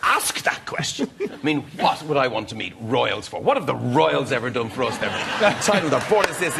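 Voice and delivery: hammed-up outraged father; dad ranting against royals, mock indignant. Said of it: "He goes on and on and on like this".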